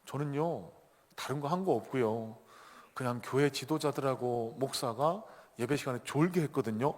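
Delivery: mildly diffident underling's report; understated, hesitant minion; slightly unsure. Acted. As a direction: report modestly, with little confidence. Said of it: "약간은 좀 자신 없게 얘기하는 겁니다".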